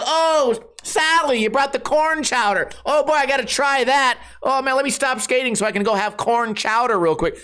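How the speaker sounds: high, gushing fake delight; hammed-up eager guest, voice lifted right up; mock excitement. Skater pretending to crave Sally's corn chowder, mock excitement. Mock enthusiasm for a dull dish.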